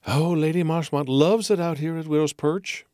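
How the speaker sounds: bright, gushing hostess; society hostess voice. Acted. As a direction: show off to your guests. Margot showing off guests.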